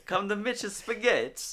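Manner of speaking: high, loud, slow cartoon pitchman; mock restaurant ad. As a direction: holler the invitation like a silly commercial.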